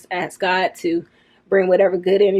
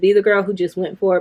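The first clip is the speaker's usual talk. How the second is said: normal talking voice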